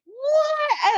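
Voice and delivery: a high, laughing squeak of shock; stunned yelp; retold amazement. Surfer recalling coming out of the barrel, a high stunned what.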